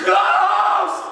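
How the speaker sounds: high, loud yelp of ghost; panicked yell. Acted. One disciple spotting the ghost, high panicked yell. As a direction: yell it to alarm the boat.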